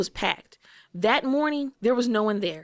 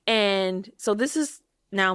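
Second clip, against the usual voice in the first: ordinary talk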